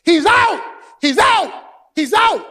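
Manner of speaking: loud high protest; shouting out. Retold or imitated. Visiting team protesting the call, high loud shouting. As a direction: yell it like the other team. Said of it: "the visiting team ran out".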